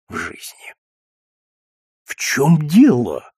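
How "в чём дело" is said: slow, dazed question; stunned. Acted. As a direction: force the words out in shock. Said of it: "удалось, наконец, выговорить".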